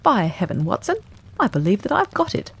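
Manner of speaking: Holmes bursting out with a discovery; sudden triumphant exclamation; excited cry. A narrator's reading. Holmes to Watson, crying out his discovery in excitement. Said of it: "he cried".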